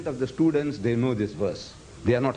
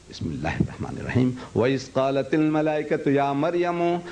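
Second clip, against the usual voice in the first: fast chanted Arabic recitation; Quran recitation; much faster than usual. Shown as a demonstration. Teacher reciting the verse before reading the translation, in chanted Arabic. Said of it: "You read".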